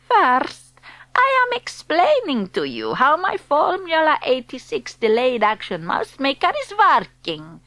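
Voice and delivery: a hint of a foreign witch accent. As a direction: speak as the stern witch leader. Grand High Witch voice.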